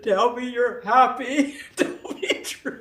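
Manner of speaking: slow, drawn-out "happy" with villain relish; mock evil self. Host pressing Steve in a hammed-up evil voice. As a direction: demand "Tell me you're happy." like a cartoon villain. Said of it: "the evil Manal came out".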